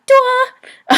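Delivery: duo shouted far too high and loud; teacher mocking an overdone first tone; exaggerated high duo. Shown as a demonstration. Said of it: "you don't have to be like".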